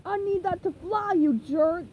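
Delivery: indignant seagull. Acted. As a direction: scold like an angry seagull. Seagull complaining.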